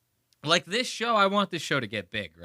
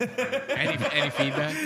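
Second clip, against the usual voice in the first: laughing mockery. Mocking voice, laughing.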